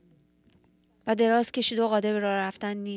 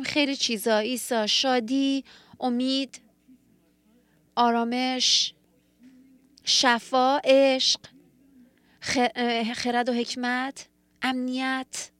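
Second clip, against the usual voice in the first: growing louder word by word, swelling on عشق; rising hopeful list; 2 semitones higher, 4 dB louder, slower than usual. Retold or imitated. Preacher voicing his flock answering Jesus, building louder. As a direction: let each longing build louder toward a cry.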